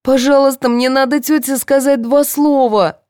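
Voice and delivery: high, loud desperate plea; begging. A narrator's reading. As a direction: implore the guard for a moment. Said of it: "взмолилась Татьяна".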